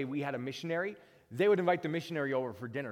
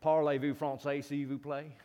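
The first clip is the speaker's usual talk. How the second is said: put-on French with Southern accent. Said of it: "speak French with a Southern accent".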